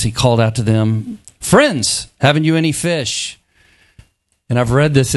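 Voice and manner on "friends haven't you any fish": calling out. Acted. Jesus calling out to disciples.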